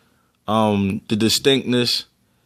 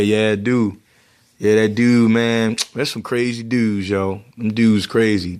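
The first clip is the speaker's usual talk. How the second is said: strong Baltimore accent on "dude" and "dudes"; 2 semitones lower than usual. Shown as a demonstration. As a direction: let the hometown Baltimore accent come out. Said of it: "it might come out".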